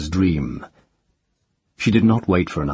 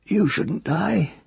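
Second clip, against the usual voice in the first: put-on child's voice; 12 semitones higher, slower than usual. Child frowning.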